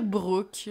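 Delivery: Brooke said the Québécois way; Québécois pronunciation. Shown as a demonstration. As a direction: give Brooke a French R. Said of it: "Écoute, on est des Québécois". (Brooke prononcé à la québécoise)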